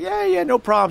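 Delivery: high breezy reassurance; lightly voiced roommate brushing it off; high casual yeah yeah; Mara's voice. Mara voiced in retold story.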